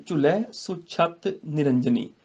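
slow measured Gurbani recitation. Shown as a demonstration. Teacher recites the verse to students, slow. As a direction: chant each word with pauses.

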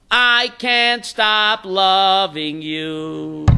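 very slow, tender and loving; tender parent. Retold or imitated. God speaking to rebellious children, tender and slow. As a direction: hold each word like an embrace. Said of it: "Like a parent's love".

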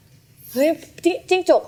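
high, slow startled cry; mock alarm at a lizard. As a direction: act startled by a gecko, high and drawn out. Partner startled by gecko, imitated.

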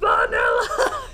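slow, loud, high squeal of a word; stretched-out happy shout; excited. Retold or imitated. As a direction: shout it with pure joy. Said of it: "I got excited".

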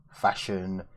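normal talking voice

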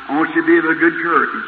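urgent encouragement. Retold or imitated. Preacher urging his wife to take courage, fast and bright. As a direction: lift her spirits quickly.

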